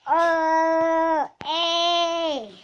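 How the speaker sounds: high squeaky helium voice. Real, not acted. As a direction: talk with a lungful of helium. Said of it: "It sounds a little different".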